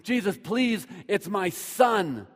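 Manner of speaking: loud, high, urgent pleading; a father crying out for his dying son; desperate begging. Acted. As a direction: beg at full force, insisting over and over. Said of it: "he begged him or he pleaded".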